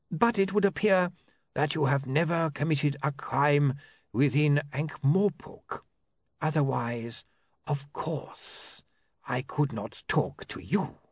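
measured, precise solicitor voice; lawyer voice. A narrator's reading.

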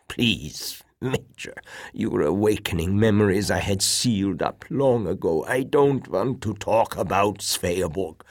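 lightly voiced old admiral, pleading; a touch of an old man's reluctant plea. Old man begs the major to drop it, mildly pleading.

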